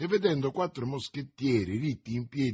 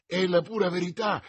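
high, raised protest; exclaimed confirmation; 6 semitones higher, 4 dB louder than usual. A narrator's reading. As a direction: insist on it out loud. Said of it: "esclamò il merciaio". (conferma esclamata)

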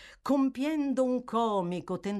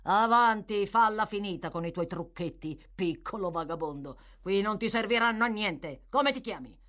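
scolding magistrate; 3 semitones higher, 4 dB louder than usual. Acted. Magistrate berates a fainting boy.

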